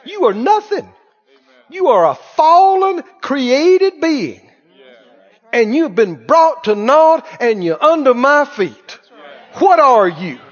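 defiant taunting of the devil, building; sassy taunt. Retold or imitated. Preacher taunting the devil in faith, sassy and defiant. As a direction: tell the devil off with sass. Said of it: "you get so sassy".

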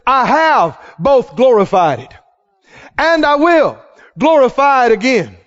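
loud, stretched-out proclamation; booming voice of God. Acted. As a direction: proclaim it from heaven, weighty and forceful. God's voice from heaven.

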